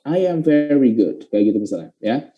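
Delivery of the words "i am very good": "I am" slowly as "ai-yam"; slow linked teaching demo. Shown as a demonstration. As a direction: say "I am very good" slowly, Y between "I" and "am". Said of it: "ada huruf Y-nya".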